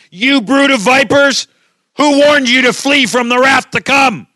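loud, high prophet's denunciation; fiery shouted rebuke. Acted. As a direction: thunder it at the crowd as a warning. Preacher acts out John's fiery rebuke.

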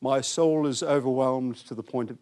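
lifeless pious scripture reading; mock-pious, toneless recital; pious monotone. Shown as a demonstration. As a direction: read it like a monotone audio Bible. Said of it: "pious sort of voice".

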